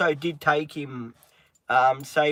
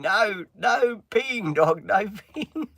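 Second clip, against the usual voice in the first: mock scolding; 5 semitones higher, much slower than usual. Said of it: "Izzy's probably laughing at me saying".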